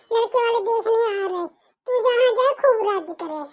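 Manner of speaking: put-on a long-suffering mother soothing her girl; resigned mother. Mother consoles daughter.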